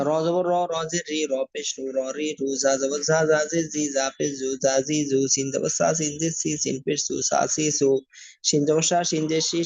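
rhythmic, even-toned letter-by-letter spelling drill; recitation drill. Shown as a demonstration. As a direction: chant out the letters evenly for learners to follow. Combined vowel spelling drill.

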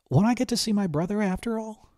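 high, pleading disappointment; pleading girl. A narrator's reading. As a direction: beg not to lose him.

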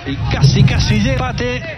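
rising near-miss call. Real, not acted. Near equaliser in live play.

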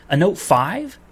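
exasperated real disbelief; incredulous. Real, not acted. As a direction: scoff at the offer. Outraged at clerk's suggestion.

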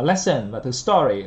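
LESSON and STORY both stressed; contrastive stress. Shown as a demonstration. Teacher pointing out contrast, stress on lesson and story. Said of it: "là nhấn đối lập".

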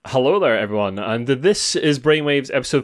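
punchy news-anchor headline delivery; headline read. Acted. Host reading the week's headlines, news-anchor style. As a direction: announce each headline like a broadcast. Reads headlines over music.

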